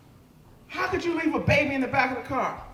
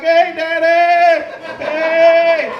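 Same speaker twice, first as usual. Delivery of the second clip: put-on loud, slow, higher baby calling daddy; toddler voice; 4 semitones higher, 9 dB louder, much slower than usual. Toddler waving a diaper at her dad, loud sing-song call.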